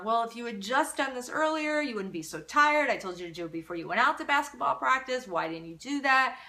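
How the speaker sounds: a mock nagging parent; berating parent. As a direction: scold the tired kid.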